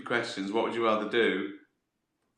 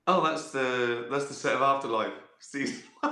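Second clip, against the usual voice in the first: mock dog musing; 2 semitones higher than usual. Voicing dog watching herself.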